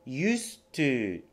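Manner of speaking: "used to" begun with the y glide of "you"; "used to" with a y sound. Shown as a demonstration. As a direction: start "used to" like the word "you". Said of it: "同じ音ですよね".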